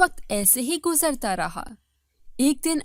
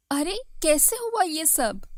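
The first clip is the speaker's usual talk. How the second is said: higher-pitched startled question; astonished; 5 semitones higher than usual. Acted. Co-wife walking in on the hair loss, astonished. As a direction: exclaim in surprise.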